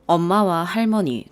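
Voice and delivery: plain reading voice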